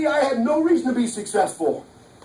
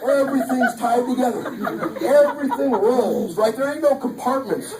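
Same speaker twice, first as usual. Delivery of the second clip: laughing; 2 semitones higher than usual. Real, not acted. Joking about women's spaghetti minds.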